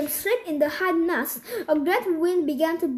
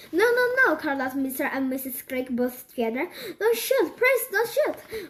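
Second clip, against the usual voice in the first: pleading. Acted. Parents begging dogs not shoot.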